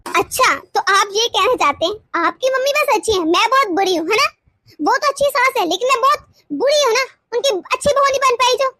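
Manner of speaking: hurt, sarcastic self-blame; bitter sarcasm. Acted. Wife mockingly calls herself the bad one, bitter sarcasm. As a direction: throw his words back at him bitterly. Wife twists husband's praise of mother.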